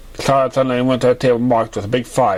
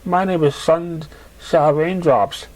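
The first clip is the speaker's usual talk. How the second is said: sweet mare; 5 semitones higher than usual. Acted. Raindrops introducing herself.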